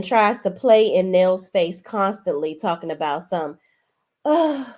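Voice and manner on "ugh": mock protest. Acted complaint from retold quarrel.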